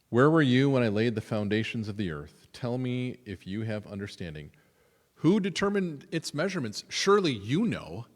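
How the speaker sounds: mock God's taunting questions; sarcastic God voice. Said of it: "Like the sarcasm".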